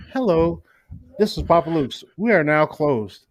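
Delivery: mock answering machine greeting. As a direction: read it like a store's answering machine.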